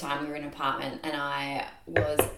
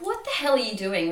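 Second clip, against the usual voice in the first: raised-pitch mock-angry question; retold mad demand; 5 semitones higher, 4 dB louder than usual. Messaging the housemates at night, retold annoyed demand. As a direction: act out an irritated demand, pitched up. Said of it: "I was so mad".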